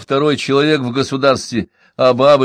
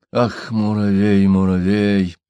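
impotent rage; 3 semitones lower, slower than usual. Acted. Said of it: "трясся в бессильной злобе Иван".

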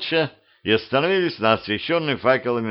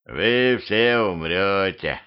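nagging corpse voice; 2 semitones lower, much slower than usual. Acted. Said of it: "назойливый голос".

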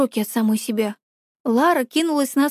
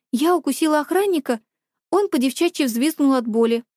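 ordinary delivery, nothing marked

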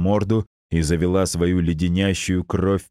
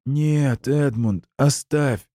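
desperate plea; 8 semitones higher, slower than usual. Acted. Pleading with dying uncle.

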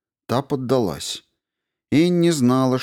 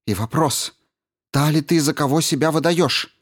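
accusing; 7 semitones higher than usual. A narrator's reading. Maddy confronts Annie, accusing.

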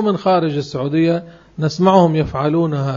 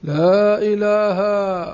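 higher, very slow drawn-out chant of "لا إله"; mimicking the pilgrim guide; 4 semitones higher, much slower than usual. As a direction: drag the words out like a guide leading the crowd. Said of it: "يقولون لهم". (تقليد المطوف يمد "لا إله" ببطء شديد وبصوت أعلى)

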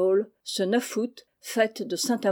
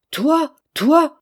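much higher and louder, thunderstruck; stunned cry; 7 semitones higher, 10 dB louder than usual. Acted. The headmaster, leaping from his chair, to the boy: stunned cry. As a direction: leap up in utter astonishment. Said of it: "s'écria monsieur Olnick ... stupéfaction profonde".

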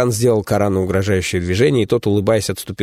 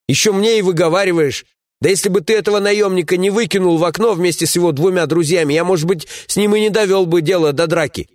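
a higher, bristling comrade voice; indignant young warrior; 10 semitones higher than usual. Acted. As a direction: defend yourself, stung and raised.

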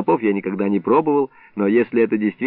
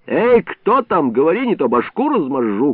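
shouted; 5 semitones higher than usual. Acted. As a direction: threaten the one in the jug. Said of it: "крикнул Илларион".

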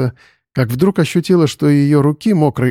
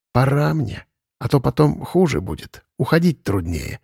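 sighing cat; 4 dB quieter than usual. Acted. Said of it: "вздохнул кот".

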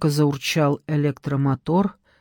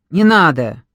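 испуганное «не надо»; 5 dB louder than usual. A narrator's reading. Пленник боится кнопки.

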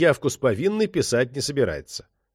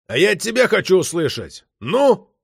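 higher, louder bark ending on a sharp Ну; 6 semitones higher, 5 dB louder than usual. A narrator's reading. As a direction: snap at the suspect to talk. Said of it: "гаркнул Токарев".

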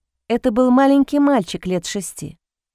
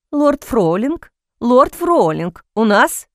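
frightened; 3 dB louder, slower than usual. Acted. Servant runs in, frightened.

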